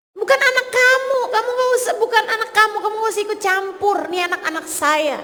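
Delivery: high, fast, defensive mother scolding a stranger; indignant mother. Retold or imitated. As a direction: snap back like a mother protecting her child. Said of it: "Kamu bakalan bilang". (ibu membela anaknya dengan nada tinggi dan cepat)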